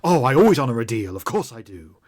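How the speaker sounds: a hint of a showy trader doling out coins; Professor Doctor's voice. GM as Professor Doctor paying the player, mock generous. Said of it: "He turns around and says".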